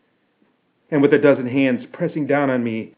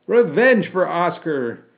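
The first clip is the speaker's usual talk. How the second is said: loud, raised cry for vengeance; acted vengeful yell; shouting; 6 semitones higher, 5 dB louder than usual. A narrator's reading. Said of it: "I shouted".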